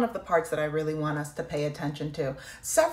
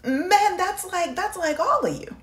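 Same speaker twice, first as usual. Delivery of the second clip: choked up; 13 semitones higher, 3 dB louder than usual. Real, not acted. Emotional reaction to draft news.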